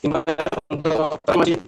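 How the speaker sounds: choppy, breaking-up call audio; glitching robot. Real, not acted. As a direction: voice cutting in and out. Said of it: "Masih, Pak".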